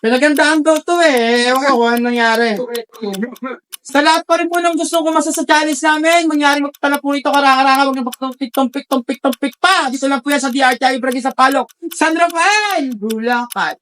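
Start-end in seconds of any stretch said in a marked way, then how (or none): 3.9-13.8 promo announcement; announcer voice. Acted. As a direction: sell it like an ad. Host announces the challenge.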